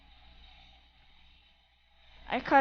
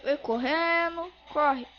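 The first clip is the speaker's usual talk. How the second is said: being chased; 4 dB quieter than usual. Real, not acted. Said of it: "os caras tá atrás de mim".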